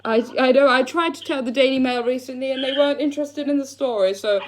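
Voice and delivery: put-on posh English accent; a touch of refined posh. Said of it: "I was putting on a nice voice for you".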